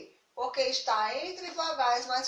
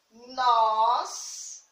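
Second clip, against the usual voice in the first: syllable by syllable; 4 dB louder than usual. Shown as a demonstration. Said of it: "se a gente fosse separar a palavra".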